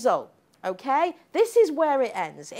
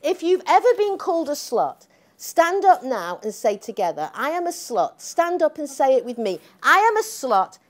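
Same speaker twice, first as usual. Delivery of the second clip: rally speech; 5 dB louder than usual. Retold or imitated. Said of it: "this was her speech".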